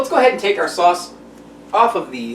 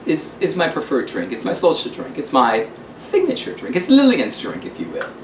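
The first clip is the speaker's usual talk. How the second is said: lightly voiced grand London hostess; a hint of a theatrical lady calling everyone darling; gushing host signing off with ta-ta; Lillian Lampshire. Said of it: "this is Lillian Lampshire from the luxurious lap of London".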